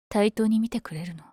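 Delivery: sincere whisper. Acted. Sincere confession to hero.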